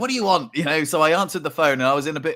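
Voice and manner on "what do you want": grumpy answer. Retold or imitated. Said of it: "a bit of a grumpy mood".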